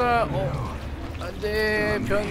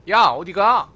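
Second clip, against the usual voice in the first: calling out; 8 dB louder, slower than usual. Real, not acted. Calling after fleeing character.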